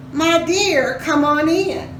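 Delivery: high, sweet put-on granny voice; a wolf faking a granny's welcome. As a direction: call out like a fake sweet grandma. Wolf disguised as Granny calls.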